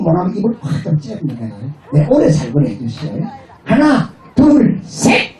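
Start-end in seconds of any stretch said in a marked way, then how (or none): 3.6-5.3 slow, higher count to cue the crowd. Shown as a demonstration. Comedian counting in the audience, drawn out.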